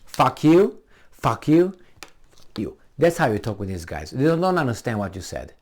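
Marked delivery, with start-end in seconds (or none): 0.0-2.8 short jabs, pitched up at the end; blunt crude insult. Shown as a demonstration. Showing an intellectual how to talk back, blunt crude insult. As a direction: throw the curse out as a crude comeback. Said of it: "You say like this".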